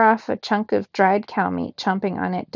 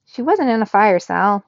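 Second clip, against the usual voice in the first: louder, insistent correction of her brother; yelling; 5 dB louder than usual. Acted. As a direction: shout it at Sal to set him straight. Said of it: "yelled Gabby".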